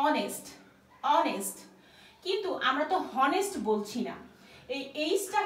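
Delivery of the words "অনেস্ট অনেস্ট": অনেস্ট said with silent h, starting on the o vowel; অনেস্ট pronounced onest, h dropped; pronunciation demo. Shown as a demonstration. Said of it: "এটার উচ্চারণ কি".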